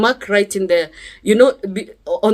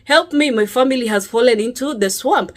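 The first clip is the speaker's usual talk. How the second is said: higher, urgent mock call to the neighbours; calling for help; 3 semitones higher than usual. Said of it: "I'm screaming and calling everyone".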